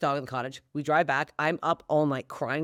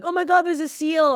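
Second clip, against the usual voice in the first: much higher, louder imitation of alarmed strangers; mock panicking beachgoer; 12 semitones higher, 7 dB louder than usual. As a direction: gasp it out like you spotted a seal.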